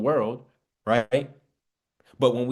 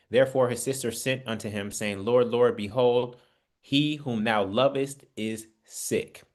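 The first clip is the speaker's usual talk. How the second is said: scripture reading. Acted. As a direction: read the verse with weight, slowing at the end. Reads Bible verse aloud.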